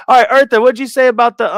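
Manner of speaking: high-pitched, loud, over-eager call-out; excited high pitch; high-caffeine voice. Real, not acted. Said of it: "let me not have my high pitch, high caffeine voice".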